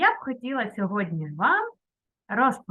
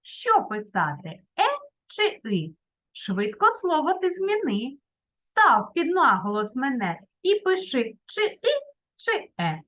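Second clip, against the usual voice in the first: a memory rhyme said with a sing-song lilt; rhyme recited; 3 semitones higher than usual. Shown as a demonstration. Teacher giving pupils a memory rhyme, recited. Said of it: "Пропоную вам запам'ятати такий віршик".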